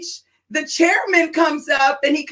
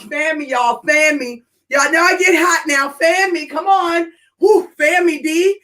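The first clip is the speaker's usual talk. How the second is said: flustered excitement. Real, not acted. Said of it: "I am so freaking fired up".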